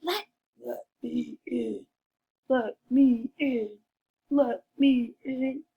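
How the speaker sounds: wolf line repeated. Shown as a demonstration. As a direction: call it again as the wolf. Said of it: "I can't wait to hear your voices".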